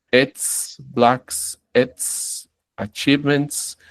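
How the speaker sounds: "ets, blacks, ets, achievements" each ending in a voiceless s; normal S endings. Shown as a demonstration. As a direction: list the words apart, each closing on a simple hissed s. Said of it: "son las S normales de nosotros". ("ets, blacks, ets, achievements" con s sorda al final)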